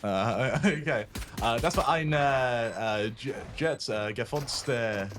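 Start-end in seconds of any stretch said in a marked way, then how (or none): 1.4-5.1 halting attempt at casting in German. Shown as a demonstration. Caster asked for second language, hesitant German. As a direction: feel for the words in German, with hesitations. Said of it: "either German or Russian".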